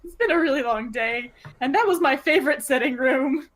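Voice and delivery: choked-up tears. Acted. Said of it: "tearing up a little".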